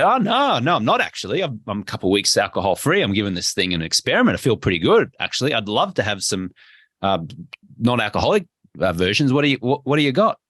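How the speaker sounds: upbeat, easy explanation; breezy confident reply. Shown as a demonstration. Guest tells a friend they are alcohol free, breezy. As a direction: shrug it off cheerfully.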